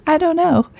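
a real little laugh running into the words. Real, not acted. Podcast host laughing at herself to listeners, amused. Laughing at her own question.

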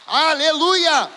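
huge, slow, stretched-out Aleluia at full shout; shouted praise. Real, not acted. Preacher crying out to the congregation, full shout. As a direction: throw Aleluia to the back of the church.

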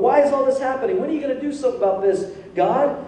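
imitated petulant pleading; mock whining. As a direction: whine it at God. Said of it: "he's just whining".

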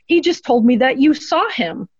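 high, stunned gasp of a reply; shocked. Retold or imitated. Psychic tells the widow her husband spoke to her, shocked and high. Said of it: "had this shocked look on her face".

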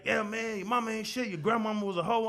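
mocking trash talk. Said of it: "dudes be like".

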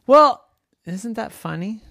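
high, eager little pig calling her friends; Dora the pig voice. Acted. Pig Dora calling to her bored farm friends, high and eager. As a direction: squeal it out to get everyone's attention.

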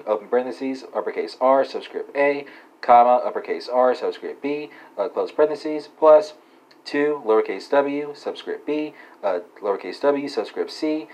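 slow, deliberate formula dictation; dictating. Acted. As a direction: spell out each symbol carefully. Reads formula out symbol by symbol.

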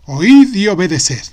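loud barked order; commanding vizier. Acted. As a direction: order them out.

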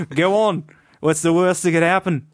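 put-on Welsh accent. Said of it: "I went kind of Australian at the end there".

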